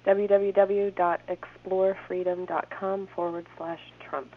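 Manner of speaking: slow, careful read-back; reading back slowly. Real, not acted. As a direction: read the address back word by word.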